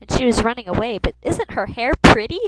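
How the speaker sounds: lightly voiced little boy, pitch swooping up; a hint of a small boy asking; lightly put-on little kid voice. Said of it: "Still keeping my little boy voice".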